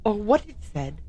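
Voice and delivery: light French accent on the carpenter's line; mild French-accented narration. Shown as a demonstration. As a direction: read it as a Frenchman would. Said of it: "he should have said it this way".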